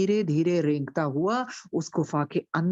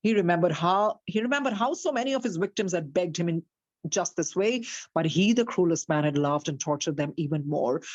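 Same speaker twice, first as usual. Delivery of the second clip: slow, deliberate storybook reading; story narration; much slower than usual. A narrator's reading. Teacher reads the story slowly to her class. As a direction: read it out slowly to the listeners.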